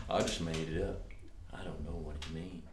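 low, soft mumbled impression of a singer. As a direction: lightly imitate a singer's offhand answer. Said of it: "when a singer said".

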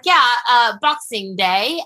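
lightly imitated posh British accent; a hint of a posh British coworker. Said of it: "he has this, the cutest little British accent".

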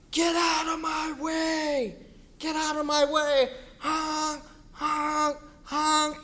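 high, loud, slow commanding yell; booming shout. Retold or imitated. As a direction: blast it like a truck horn. God's voice as a truck.

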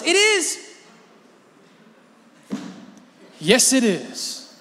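high, loud, pouting mock anger; sulky Jonah. Preacher voicing Jonah answering God, mock pouting anger. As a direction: stamp it out like a sulking child.

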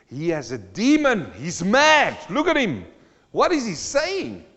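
mock accuser shouting; mocking crowd. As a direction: sneer it like a hostile crowd. Crowd mocking Jesus, voiced.

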